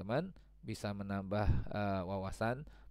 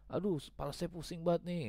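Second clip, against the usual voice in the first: mock complaining friend; 7 semitones higher than usual. Voicing a friend with headache.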